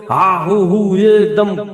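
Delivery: a touch of mock shouting; mock yelling. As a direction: lightly imitate someone storming in yelling. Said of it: "چیخنا چلانا شروع کرتے ہو".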